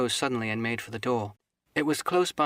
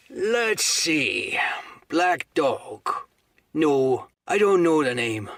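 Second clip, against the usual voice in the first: slow, louder pondering; musing landlord; 4 semitones higher, 4 dB louder, slower than usual. Acted. Silver feigns remembering Black Dog, slowly. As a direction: pretend to search your memory.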